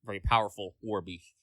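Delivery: chewing while talking; mouth full. Real, not acted. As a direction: talk through a cracker, mouth full. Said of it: "Sorry, I was chewing a cracker there".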